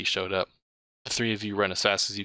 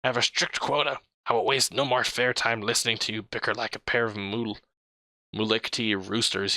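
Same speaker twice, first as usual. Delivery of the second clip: braying; 2 semitones higher than usual. Acted. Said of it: "he brays".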